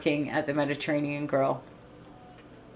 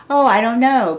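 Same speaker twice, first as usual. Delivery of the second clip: smug boss; 6 semitones higher, 10 dB louder than usual. Retold or imitated. Boss's reply, big smile.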